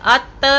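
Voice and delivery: अत with a bouncing echo release; wrong echo. Shown as a demonstration. Teacher showing the wrong echoed अत. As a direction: bounce the ending of अत. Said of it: "ये कलकला है, इस तरह से इसे अदा नहीं करेंगे".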